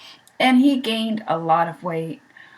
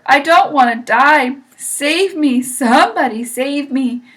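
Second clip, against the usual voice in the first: panicked pleading; 4 semitones higher, 6 dB louder than usual. A narrator's reading. Wilbur begs to be saved.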